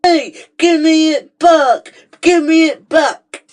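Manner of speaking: snatch back your toy, outraged; angry demand. Acted. Villain demanding button.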